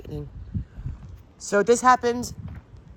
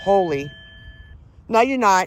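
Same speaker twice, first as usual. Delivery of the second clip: firm rebuke; 5 dB louder than usual. Real, not acted. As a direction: shut the spirit down loudly. Rebuking a voice from spirit app.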